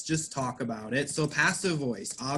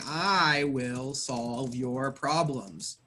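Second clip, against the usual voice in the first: slowly, as a promise; slow, deliberate example line; slow model sentence; 2 semitones lower, slower than usual. Shown as a demonstration. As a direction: spell out the active sentence slowly. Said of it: "somebody does not talk like this".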